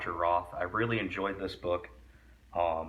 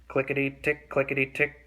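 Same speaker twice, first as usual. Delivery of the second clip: clickety sound word; 6 semitones higher, 5 dB louder than usual. Shown as a demonstration.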